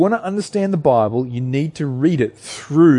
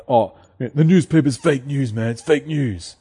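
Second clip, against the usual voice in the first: terrible impersonation. Retold or imitated. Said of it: "That's a terrible impersonation".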